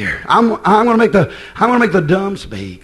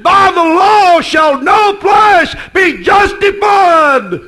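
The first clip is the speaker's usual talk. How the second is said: God's voice; 8 semitones higher, 4 dB louder, much slower than usual. Retold or imitated. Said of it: "But God said".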